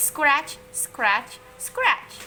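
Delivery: loud, rising disdainful mimicry; mock the itch with disgust; mock scratching. A narrator's reading. Teacher mocks the itching.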